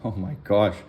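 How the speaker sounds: mumbling, tongue-tied; stumbling over words; marbles in mouth. Real, not acted. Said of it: "I got marbles in my mouth today".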